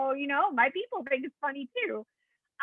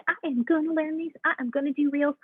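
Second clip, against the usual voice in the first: cute Southern coach; 5 semitones higher than usual. Retold or imitated. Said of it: "this cute little Southern thing".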